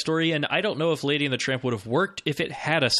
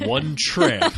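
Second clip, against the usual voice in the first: movie trailer voice; 2 semitones higher, 4 dB louder than usual. Pretend. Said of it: "trailer voice guy version of this".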